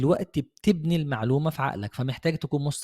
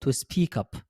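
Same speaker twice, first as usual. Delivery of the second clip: speak up demo; 3 semitones higher, much slower than usual. Shown as a demonstration. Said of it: "تتكلم بصوت مسموع".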